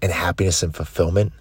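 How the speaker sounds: low, soft, spaced-out imperatives; hushed closing charge. Acted. Coach urging listeners to seek discomfort, hushed closing charge. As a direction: bring it right down for a solemn close.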